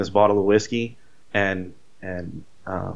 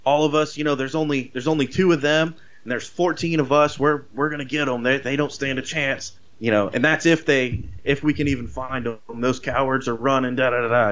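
higher, cocky boasting sheriff; rallying the troops; 4 semitones higher than usual. Retold or imitated. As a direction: crow to the posse that they'll get them. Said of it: "rallying the troops".

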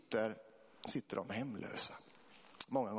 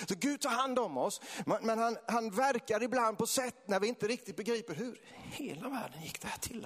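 passionate preaching; 8 semitones higher than usual. Real, not acted. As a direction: preach it with rising fervour. Preaches at full force. (eldig, högstämd väckelsepredikan)

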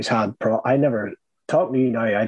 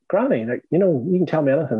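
higher, quick coaxing of a grandmother; coaxing reassurance; 6 semitones higher, faster than usual. Retold or imitated. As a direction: gently urge her to open up, pitched up.

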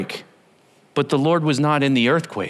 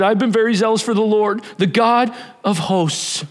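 insistent complaint; 5 semitones higher than usual. Acted. Elijah's repeated complaint to God.

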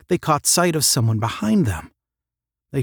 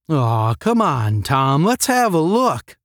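slow, coaxing plea; drawn-out, wheedling urge; urging; 4 semitones higher, 3 dB louder, slower than usual. A narrator's reading. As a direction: coax a friend to come along.

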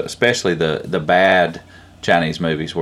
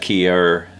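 hawk call imitation. Shown as a demonstration. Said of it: "That key-er kind of sound".

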